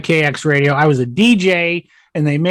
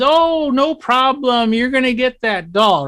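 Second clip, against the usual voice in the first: a light, higher, slow Santa voice; kindly Santa; 6 semitones higher, slower than usual. Retold or imitated. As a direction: play a jolly Santa reassuring the child. Santa reassures the little girl.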